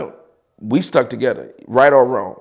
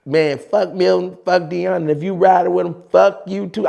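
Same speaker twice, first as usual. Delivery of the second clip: imitating JR; 4 semitones higher than usual. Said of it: "I actually do it on tape, exactly how he said it".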